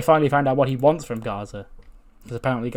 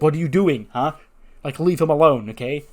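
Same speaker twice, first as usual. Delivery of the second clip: loud, raised, indignant intervention; protesting scolding; 4 semitones higher, 6 dB louder than usual. Retold or imitated. Indy running out to stop the attack, protesting. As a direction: voice an urgent telling-off. Woman runs out defending wrestler.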